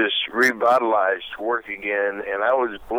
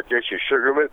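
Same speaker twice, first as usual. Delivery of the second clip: name said through a coffee burp; burping the words; 4 semitones higher, faster than usual. Real, not acted. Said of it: "ooh, big burp from coffee".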